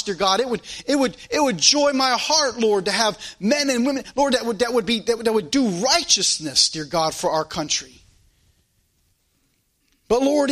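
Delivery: heartfelt public prayer, building in pitch; earnest prayer. Real, not acted. Pastor praying aloud for the nation's leaders, earnest prayer.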